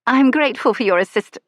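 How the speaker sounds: grateful lady stopping mid-word; lady's voice. Acted. Lady thanks the stranger.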